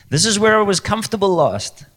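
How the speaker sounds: high, loud mock complaint; mock protest. Believer leaving comfort behind, loud mock protest. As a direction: protest loudly, playing the reluctant believer. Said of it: "You're like".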